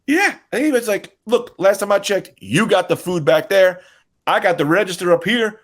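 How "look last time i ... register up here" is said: conspiring cashier. Retold or imitated. Cashier talks cook into scheme.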